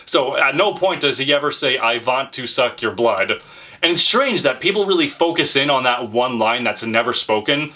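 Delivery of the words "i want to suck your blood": put-on slow Hungarian-accented vampire quote; Dracula imitation. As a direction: stretch it out in a mock Hungarian accent. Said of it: "saying it with his Hungarian accent".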